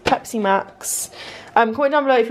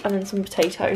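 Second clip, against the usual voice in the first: ordinary delivery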